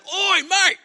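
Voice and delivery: loud, high call across the bridge; yelling out. Retold or imitated. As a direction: shout to catch his attention. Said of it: "he yells out".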